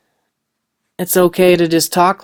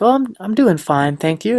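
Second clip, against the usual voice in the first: a hint of a sweet grandma, pitched a bit up; grandma's fine; 4 semitones higher than usual. Imitating grandma answering how she's doing, lightly voiced. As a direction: lightly voice an old lady being polite. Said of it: "the way she says it's a little different".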